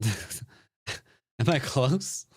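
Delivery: very slow, laughing, rising mock question; teasing drawn-out repeat. Shown as a demonstration. Streamer teasing chat about his guess, slow and laughing. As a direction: stretch it out to tease chat. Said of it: "laughs, drawn-out repeat".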